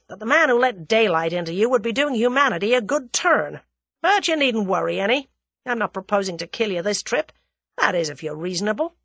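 forceful American threat, easing toward the end; threaten, then reassure him on your terms; menacing American gunman. Acted.

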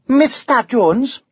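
slow, high Welsh correction; Welsh dragon. A narrator's reading. Dragon insists on Mister, slow Welsh lilt.

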